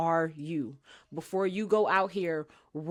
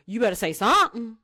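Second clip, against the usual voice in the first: louder, firm warning to a friend; emphatic warning; 5 dB louder than usual. Shown as a demonstration. Host warning friends to speak up, firm and louder. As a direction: lean on it, make them listen.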